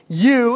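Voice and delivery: "You" pitched high and set apart; emphatic you. Shown as a demonstration. Preacher to congregation, an emphatic "You". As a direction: land "You" hard, then pause. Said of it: "and it's an emphatic".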